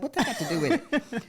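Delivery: high, indignant retort; retold indignation. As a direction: throw the question back in disbelief. Retold argument with daughter.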